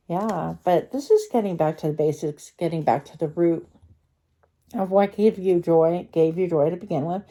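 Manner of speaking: retainer in the mouth, slightly thick speech; talking with a retainer. Real, not acted. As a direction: speak around a retainer in your mouth. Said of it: "I have my retainer in my mouth".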